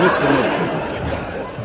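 slow, breathless whisper of the name; awed whisper. Retold or imitated. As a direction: hush it like he's royalty. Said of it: "the Pope was coming".

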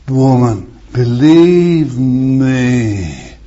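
slow, tender plea, drawn right out; great sympathy. Acted. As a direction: gently coax her to believe. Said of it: "In great sympathy".

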